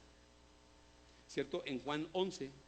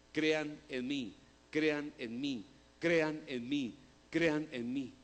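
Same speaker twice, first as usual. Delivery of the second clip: insistent repetition, each "crean" pushed harder than "en mí"; emphasis on "crean"; much slower than usual. Shown as a demonstration. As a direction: repeat it like a refrain, leaning on "crean". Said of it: "¿Cuál es el énfasis de todos los textos". (repetición insistente con énfasis en "crean")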